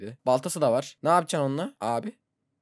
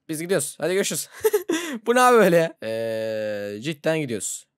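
ordinary talk, nothing marked

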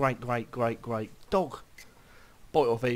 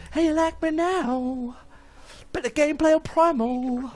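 gloating taunt; 12 semitones higher, 4 dB louder than usual. Pretend. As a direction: rub it in, much higher.

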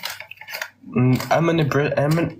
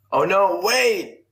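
high squeaky "Oh no, wait!"; a jokey panic, way up high; mock panicked English; 7 semitones higher, slower than usual. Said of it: "You're like".

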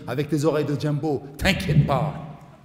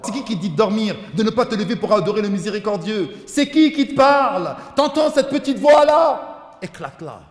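loud challenge; 6 semitones higher, 8 dB louder than usual. Retold or imitated. Preacher challenging son's lazy voice.

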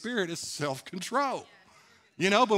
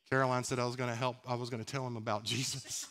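laughing through the words, lower; amused telling; 5 semitones lower, 5 dB quieter than usual. Real, not acted. Preacher joking with congregation about the driver, laughing. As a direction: chuckle while you confess the joke.

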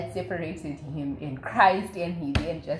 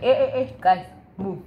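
shooing them off; 4 dB louder, faster than usual. Retold or imitated. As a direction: playfully order the guys to get moving. Jesus shooing the disciples off.

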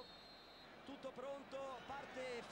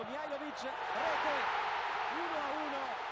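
breathless italian goal commentary; 4 semitones higher, 6 dB louder than usual. Real, not acted. Penalty goal called.

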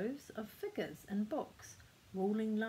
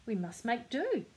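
a touch of sharpness, a bit louder; brisk mild snap of a pirate mother; lightly voiced mother, curt and firm; answered sharply; 3 semitones higher, 4 dB louder than usual. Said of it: "his mother answered sharply".

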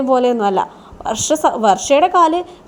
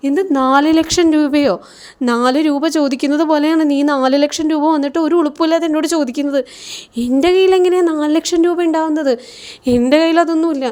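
a mother outraged at a money request, scolding; indignant mother; 3 semitones higher than usual. Retold or imitated. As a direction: snap at the son in disbelief. Mother scolds son over money.

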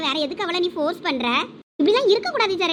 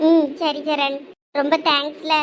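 low, subdued thanks; mildly tearful, voice dropped low; 5 semitones lower, slower than usual. Acted. Thanking the friend who consoled her, mildly tearful. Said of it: "எதுக்கு இப்ப நீ அழுதுகிட்டு இருக்க".

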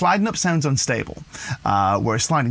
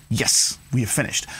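finished statement, dropping on "finished"; affirmative falling tune; 2 semitones lower than usual. Shown as a demonstration. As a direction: say it as settled, "finished" going down. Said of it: "down feels pretty like".

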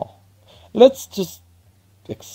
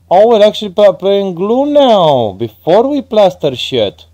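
excited outburst; 9 semitones higher, 5 dB louder than usual. Real, not acted. Realizing the mistake mid-task.

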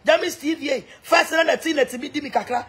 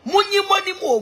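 excited exclamation; 7 semitones higher than usual. Real, not acted. Exclaiming at Gucci.

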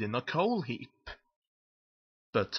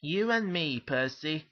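pleased, higher-pitched lilt; smiling; 3 semitones higher than usual. Acted. Thomas to Percy about the cover picture, smiling. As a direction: say it through a smile. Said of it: "smiled Thomas".

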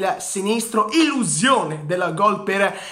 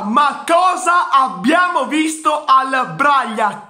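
excited shout; 4 semitones higher, 3 dB louder than usual. Real, not acted. Repeated louder, shouted.

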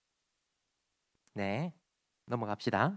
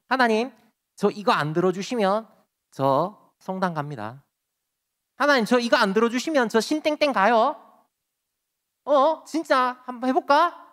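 mock threatening prayer; 3 semitones higher, 4 dB louder than usual. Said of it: "하나님 협박하는 거죠".

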